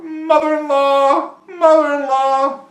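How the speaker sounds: high, drawn-out holler; yelled out. A narrator's reading. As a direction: call loudly across a lake, stretching each word. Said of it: "he yelled out".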